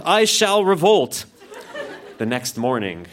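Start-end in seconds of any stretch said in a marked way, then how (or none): 0.0-1.2 high, slow proclamation; determined. A narrator's reading. Peasant vows to join the uprising, determined. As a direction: declare it grandly, drawn out and pitched up.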